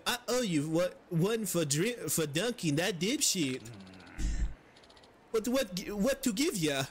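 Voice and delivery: fumbling fake Swedish NPC voice; half-hearted Swedish accent drifting toward generic European; attempted Swedish accent. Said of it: "I try to do Swedish".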